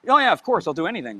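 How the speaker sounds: sarcastic. Retold or imitated. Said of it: "It's always this".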